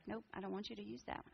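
softly imitated divine refusal, half whispered; hushed voice of God. God turning down the speaker's old talk, hushed. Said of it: "And then God was like".

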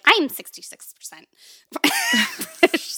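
a half-mocking proud claim cracking into laughter; mock proud, laughing. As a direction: laugh through a smug boast. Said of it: "to be like".

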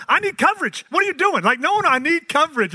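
high, loud, hammed-up insistence; mock eager customer. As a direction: play the overeager caller begging for coverage. Mock telemarketer prank call.

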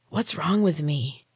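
slow, strained, rasping half-whisper; raspy whisper. Acted. Jane waking in pain, asking Neil in a raspy whisper. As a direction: croak it out weakly, just waking. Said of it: "My voice came out as a raspy whisper".

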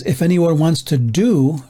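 "do" drawn out slowly at the end; slow, weighted "do"; stress on "do". Real, not acted. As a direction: lean on the word "do" and stretch it. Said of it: "I emphasize the word do".

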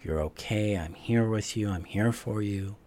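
loving inner parent. Retold or imitated. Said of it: "this programmed voice is like".

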